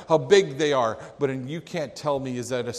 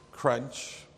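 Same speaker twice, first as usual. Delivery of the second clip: apple crunch; 4 dB quieter than usual. Retold or imitated. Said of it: "took crunch out of his apple".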